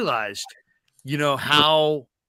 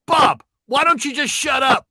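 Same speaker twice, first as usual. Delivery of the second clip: high, loud taunt; caller's jab; 11 semitones higher, 7 dB louder than usual. Retold or imitated. Caller telling the host to shut up. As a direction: tell him to shut up, mocking. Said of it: "He goes".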